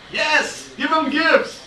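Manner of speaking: high, excited mock cheer. Comedian egging parents on to gift teachers, mock cheering.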